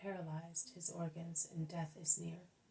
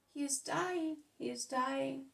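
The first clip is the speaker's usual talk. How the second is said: desperate; 5 semitones higher, 3 dB louder than usual. Acted. Grandfather panics about dying boy.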